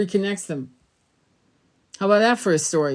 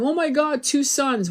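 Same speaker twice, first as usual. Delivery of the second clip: higher mock-alarmed gasp; 6 semitones higher than usual. Mocking camera posters who see two suns, mock alarm. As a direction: parody the panicked posters. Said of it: "and going".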